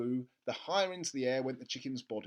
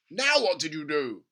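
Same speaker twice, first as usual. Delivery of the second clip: loud, slow and eager; an impatient dad, loud and keen; eager father; 9 dB louder than usual. Acted. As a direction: press him for the recipe. Father voiced in story.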